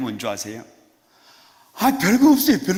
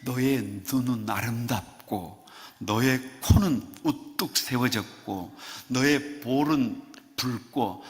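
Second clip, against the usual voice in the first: tender recitation; 4 semitones lower, 4 dB quieter, slower than usual. Pretend. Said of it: "성경이 뭐라 그러냐".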